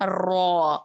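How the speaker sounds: رو with a clearly trilled, repeated r; rolled ra. Shown as a demonstration. Teacher shows the trill the letter needs. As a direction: roll the r in رو. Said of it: "رو میں یہ تکرار لازمی آنی چاہیے،".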